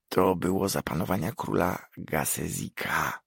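soft whispered hint; whispered prompt. Acted. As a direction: whisper the answer to a friend. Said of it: "dodał szeptem Nekam".

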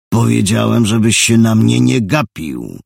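bully shouting him down; loud threat. Acted. Thug repeats threat, jabbing.

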